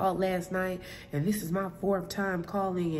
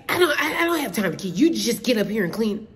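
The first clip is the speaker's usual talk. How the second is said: a rude tenant's snapped order, mock version, a touch louder; 4 semitones higher, 5 dB louder, faster than usual. Imitating the rude tenant cutting her off, mock curt. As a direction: play the pushy tenant, barking his demand without real heat. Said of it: "belligerent and rude".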